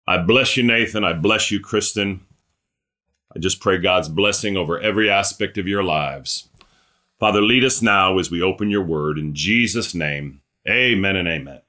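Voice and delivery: pastor's closing prayer; spoken prayer. Real, not acted. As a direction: pray a blessing over them, settling down to the amen.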